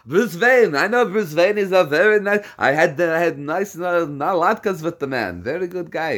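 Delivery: amused joking. Acted. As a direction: brag about Bruce Wayne through laughs. Joking about knowing Bruce Wayne.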